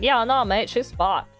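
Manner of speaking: half-hearted Australian attempt; Australian accent. Shown as a demonstration. Streamer doubting they can pull it off, attempted Australian accent. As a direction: try an Aussie accent, doubting it works. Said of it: "pull off an Australian and be like".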